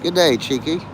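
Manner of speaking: lightly put-on Australian greeting; Australian accent. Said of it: "speak, like, Australian all day".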